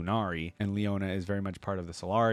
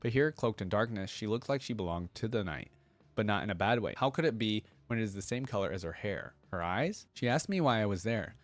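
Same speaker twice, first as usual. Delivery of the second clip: steady storybook reading voice; story narration. Acted. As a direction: read it like a gentle love letter. Reads lore letter aloud.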